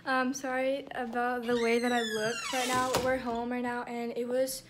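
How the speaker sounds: breathless and panting softly; out of breath. Real, not acted. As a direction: talk while catching your breath. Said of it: "I'm still out of breath".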